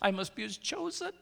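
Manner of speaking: a hint of a vain man bragging about fasting; mock holy show-off. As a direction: parody a preening self-righteous believer. Mocking a showy self-righteous faster.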